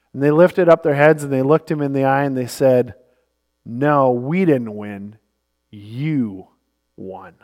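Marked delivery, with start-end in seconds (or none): 3.7-7.3 slow, low and fading to softer; quiet dejected reply. Retold or imitated. Teammates on the bench answering Magic, quietly dejected. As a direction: heads down, deflated.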